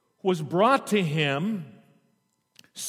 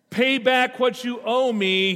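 demanding; 7 semitones higher, 3 dB louder than usual. A narrator's reading. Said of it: "he demanded".

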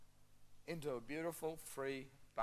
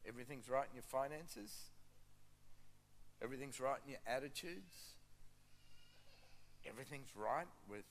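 gentle appeal; 5 dB quieter than usual. Real, not acted. Preacher asking the congregation what they are pretending, gently. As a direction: invite quiet soul-searching, leaving long pauses.

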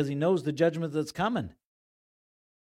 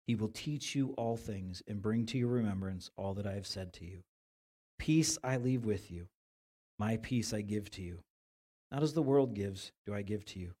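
scripture reading; 3 semitones lower than usual. Acted. Reads scripture aloud.

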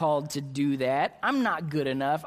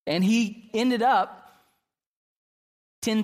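loud and slow, full of wonder; excited loud build-up; 6 semitones higher, 5 dB louder, slower than usual. Real, not acted. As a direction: stretch it out, amazed at the twist. Laugh then loud stretched.

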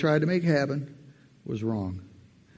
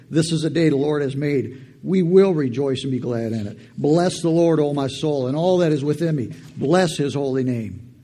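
fired-up scripture; 6 dB louder than usual. Acted. Reciting psalm at full force.

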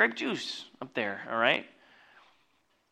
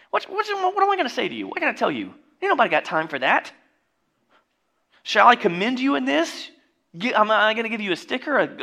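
high, loud, incredulous scolding; much higher, indignant rebuke voice, mock outraged; exasperated Paul; 8 semitones higher, 5 dB louder than usual. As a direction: play Paul fed up with the church. Voicing Paul's exasperated rebuke.

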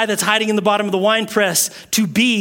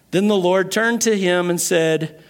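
usual speaking voice

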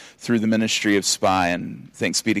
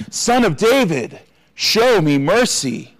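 much higher, slow pleading cry; shouting even louder; 8 semitones higher, 4 dB louder, slower than usual. A narrator's reading. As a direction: stretch it out, begging louder. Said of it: "he shouted even louder".

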